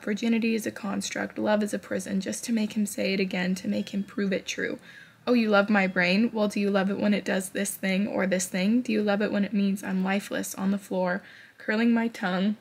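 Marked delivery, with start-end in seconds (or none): 5.3-12.6 reading while near tears. Real, not acted. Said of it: "I'm crying".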